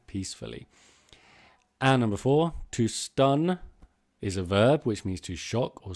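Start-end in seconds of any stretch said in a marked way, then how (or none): 0.1-0.7 soft and low. Shown as a demonstration. Teacher illustrates a sleeping baby.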